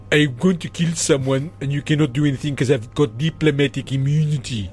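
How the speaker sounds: a light mock Indian accent; a half-hearted put-on Indian accent. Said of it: "How come you sounded, uh, Indian then?".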